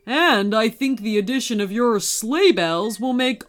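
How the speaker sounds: lightly voiced hearty Santa; encouraging storybook Santa; Santa, welcoming. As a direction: invite the elf in and rally the band.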